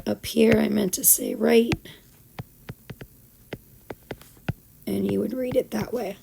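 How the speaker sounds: raspy, worn-out teacher voice; hoarse voice. Real, not acted. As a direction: voice nearly gone, speaking through it. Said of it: "even though I sound all hoarse and sick".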